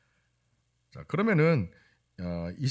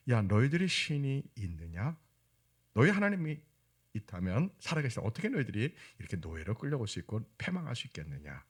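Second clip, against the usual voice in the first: imitated taunt, pitched up at first; mocking; 3 semitones higher than usual. Captors taunt the enslaved temple servant, mildly mocking. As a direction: mildly scoff at a defeated believer. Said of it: "막 조롱합니다".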